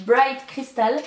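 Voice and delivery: English name said with a French accent. Real, not acted. Vlogger naming a perfume to viewers, French-accented English. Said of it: "mon accent anglais pourri".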